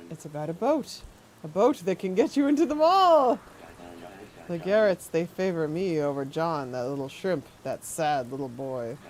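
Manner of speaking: lightly voiced sinister old man, syrupy; a hint of a creepy gentleman. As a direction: purr it like a courteous creep. Voicing creepy NPC.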